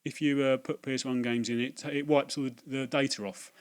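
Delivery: high, loud mocking voice of a smug clerk; hammed-up patronising young shop assistant; know-it-all shop kid. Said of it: "he goes".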